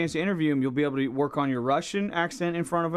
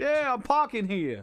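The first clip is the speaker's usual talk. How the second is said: put-on Brooklyn accent; 6 semitones higher, slower than usual. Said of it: "like, a Brooklyn accent".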